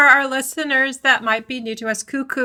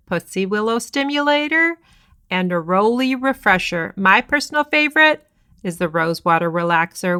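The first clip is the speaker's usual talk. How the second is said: upbeat sponsor read, steady and clear. Acted. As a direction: read it like a radio ad. Sponsor ad read mid-podcast.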